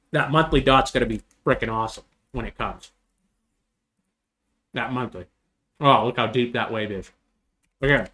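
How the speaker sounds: talking while chewing an apple; words around a bite of apple; mouth full. Real, not acted. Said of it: "Sorry, I'm eating an apple".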